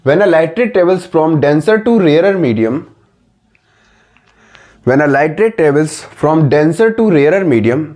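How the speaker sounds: very slow, each word spaced out for writing; slow dictation. Shown as a demonstration. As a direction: dictate slowly for notes. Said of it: "लिखो जल्दी copy में लिखो".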